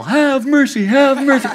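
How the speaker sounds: a playful imagined yell for mercy; mock yell. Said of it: "had the idea yet to yell".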